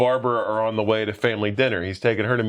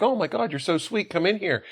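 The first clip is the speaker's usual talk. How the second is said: lightly voiced mom, pitched up sweetly; imitated gushing mom; 7 semitones higher than usual. Mom invites son's girlfriend into kitchen, imitated gushing. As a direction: coo a welcome in a higher voice.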